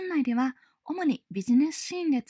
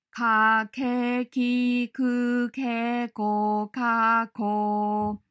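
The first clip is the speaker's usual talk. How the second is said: each syllable punched out separately, a bit louder; clipped syllable drill; 4 dB louder, much slower than usual. Shown as a demonstration. Teacher drilling syllables for breath practice. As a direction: bounce through the syllables one by one. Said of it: "と続けてみてください".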